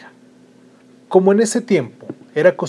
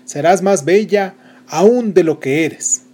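slow, higher, solemn blessing; fairy godmother; 4 semitones higher, 5 dB louder, slower than usual. Acted. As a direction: grant the gift slowly, like a spell. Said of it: "La primera dijo". (hada madrina bendiciendo despacio)

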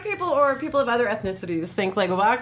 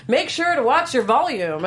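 slow stage whisper; slower than usual. Retold or imitated. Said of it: "the side said".

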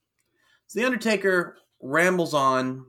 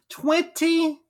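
announcer voice; 12 semitones higher than usual. Acted. Dramatic segment opener.

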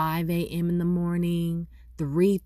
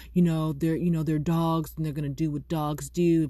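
mild retold exasperation, a little louder; mildly frustrated; 4 dB louder than usual. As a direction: imitate a neighbor getting a bit frustrated. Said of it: "he was getting frustrated".

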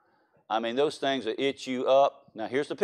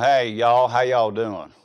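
put-on hillbilly drawl, a bit louder; North Louisiana hillbilly; 2 semitones lower, 4 dB louder, slower than usual. Preacher showing how dad's people greet, North Louisiana hillbilly accent. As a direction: exaggerate the North Louisiana country twang. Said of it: "my dad's from a North Louisiana".

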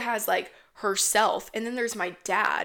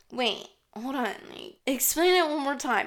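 put-on drunk mom; 4 semitones higher than usual. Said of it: "my mom's fucking drunk".

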